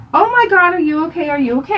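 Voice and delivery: mock a panicking mom; acted panic. Mom checking on hurt son, acted panic. Mom freaking out over brother.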